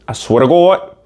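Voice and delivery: lightly put-on Minnesota accent; a hint of badly faked Minnesota accent; attempted Minnesota accent. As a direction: have a loose go at a Minnesota accent. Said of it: "that's not their accent".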